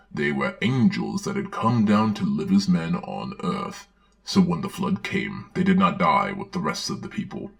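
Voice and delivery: put-on earnest children's-book reading voice; storybook narration. Narrator reading a children's Bible story aloud, earnest storybook narration. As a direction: read it like a Sunday school storybook.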